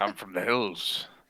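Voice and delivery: pirate-sounding dwarf voice. Playing a dwarf who denies being a pirate: pirate-sounding dwarf voice. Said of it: "You sound like a pirate".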